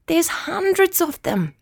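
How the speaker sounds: wide-eyed wonder; amazed child. Acted. Immy seeing hundreds of kangaroos, awed.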